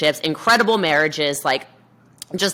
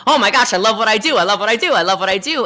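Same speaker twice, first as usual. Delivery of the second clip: gushing, louder and a little higher; excited outburst; 4 semitones higher, 4 dB louder, faster than usual. Acted. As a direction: gush with delight, as if newly in love with it. Imagined joyful self-talk in quote.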